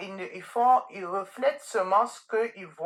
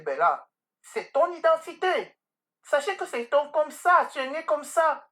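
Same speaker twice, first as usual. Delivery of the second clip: higher-pitched, emphatic motherly affirmation; earnest retold reassurance; 5 semitones higher than usual. Mother telling her child it's their identity, earnest and emphatic. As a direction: drive each affirmation home, pitched up. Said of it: "J'ai dit".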